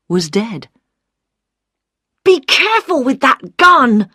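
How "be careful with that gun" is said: loud, high alarmed shout; shouting warning. Acted. Tarkis yells at Liz holding the gun, loud alarmed shout. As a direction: bellow it as a frantic warning. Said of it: "shouted Tarkis".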